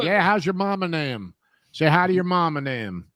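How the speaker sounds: Southern slang. Retold or imitated. Friend joking with Texas slang, folksy Southern accent. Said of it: "All that slang stuff".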